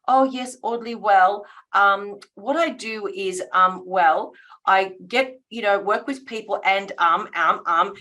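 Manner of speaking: fumbling with ums, unsure of the answer; rambling, hesitant pitch. Pretend. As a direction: stall and search for words, um after um. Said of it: "if I start saying".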